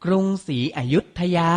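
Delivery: กรุงศรีอยุธยา said carefully as krung-si-a-yut-tha-ya; careful teaching read of กรุงศรีอยุธยา; pronunciation model. Shown as a demonstration. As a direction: model กรุงศรีอยุธยา for learners, syllable by syllable. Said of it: "อ่านว่า".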